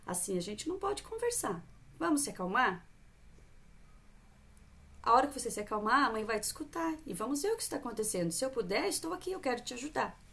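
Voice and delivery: tom suave, firme e acolhedor; mãe calma. Shown as a demonstration. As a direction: acolha sem perder a firmeza. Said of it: "E ela vê". (mãe colocando limite com calma)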